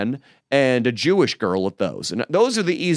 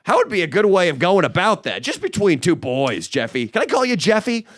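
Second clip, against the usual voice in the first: lightly higher chummy pal voice; cozy up like an old friend, higher; buddy-buddy schmoozing; 5 semitones higher than usual. Pretend. Pretending to buddy up to Jeffrey Epstein, in a higher chummy voice. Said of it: "That's how I wanted to approach".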